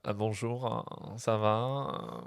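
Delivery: languid, drawn-out Parisian French; Parisian accent. Shown as a demonstration. Frenchman imitating Parisians on request, Parisian accent. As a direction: greet slowly like a Parisian. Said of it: "What's Parisian sound like?".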